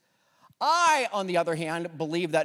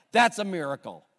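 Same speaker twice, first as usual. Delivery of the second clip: louder, ringing declaration; emphatic proclamation; 5 dB louder than usual. Real, not acted. Pastor declaring to his church, emphatic and loud. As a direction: proclaim it to the whole room.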